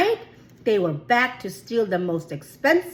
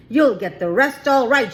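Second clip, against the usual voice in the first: louder, triumphant call; shouted; 3 semitones higher, 5 dB louder than usual. Acted. Museum owner rushing in on the thieves, mock shout. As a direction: call it out as you burst in. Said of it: "shouted Mister Dart".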